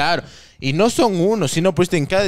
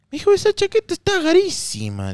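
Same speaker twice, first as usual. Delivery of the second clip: put-on higher, sing-song Cuenca accent; 12 semitones higher than usual. Cuenca local compliments his jacket in a high Cuenca lilt. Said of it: "en Cuenca".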